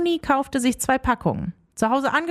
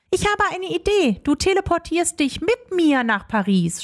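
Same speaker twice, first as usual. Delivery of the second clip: put-on higher excited girl's voice; eager girl Leonie; 5 semitones higher than usual. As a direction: pitch the idea brightly.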